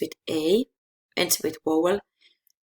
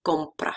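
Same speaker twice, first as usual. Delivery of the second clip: compra with the weight on COM; stress on first syllable; 3 semitones lower than usual. Shown as a demonstration. Teacher keeping the original stress, first syllable of compra stressed. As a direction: stress COM in compra, let PRA drop. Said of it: "stress it in the first syllable".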